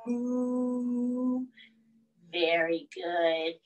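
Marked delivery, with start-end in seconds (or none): 0.1-1.5 put-on playful moo for the kids; lightly voiced cow; mock cow moo. Cow pose animal sound.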